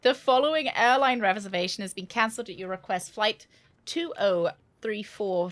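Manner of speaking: measured airline announcement read. Acted. Reading the cancellation notice to viewers in an ad voice.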